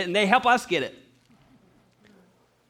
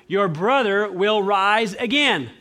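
slow, weighty, a bit louder; slow solemn promise; 3 semitones higher, 5 dB louder, much slower than usual. Acted. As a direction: stretch each word like a solemn vow. Jesus promises slowly.

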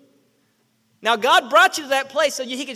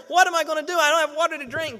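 higher-pitched fretting, lightly acted; mock worry; 3 semitones higher, 3 dB louder than usual. Preacher voices people with no water, mock worry. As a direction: play at fretting over a crisis.

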